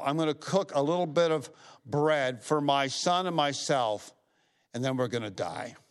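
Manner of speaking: emphatic retelling of a distressed plea. Retold or imitated. Widow telling the prophet she has nothing left, emphatic. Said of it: "she says emphatically".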